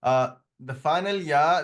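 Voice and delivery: slow rising "ya" with a long final vowel; "ya" said like an alif, lengthened; drawn-out final ya. Shown as a demonstration. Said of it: "add a little bit longer".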